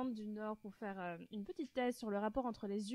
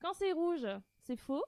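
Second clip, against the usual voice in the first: higher, measured rule announcement; game-host voice; 3 semitones higher than usual. Pretend. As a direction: present each rule like a host. Explains rules in game voice.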